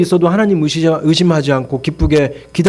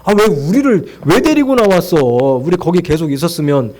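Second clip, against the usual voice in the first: retold grumble with a raised pitch; mock grumbling; 2 semitones higher than usual. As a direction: imitate a crowd griping at their leader. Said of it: "막 불평불만해".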